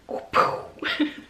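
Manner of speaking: unvoiced puff of a blast; imitated explosion. Poet mimicking oil on fire, imitated explosion. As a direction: make a small whooshing blow-up noise.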